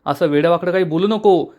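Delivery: understated annoyed retort; a touch of exasperated self-defence; mildly irritated. Acted. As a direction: protest with mild irritation, building toward the end. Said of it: "Anvay चिडून म्हणतो".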